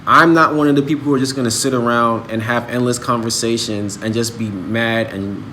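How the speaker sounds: usual speaking voice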